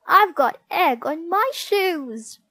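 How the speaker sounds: high, loud wail of dismay; Margaret's wail. A narrator's reading. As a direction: wail it like an upset child. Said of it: "wailed Margaret".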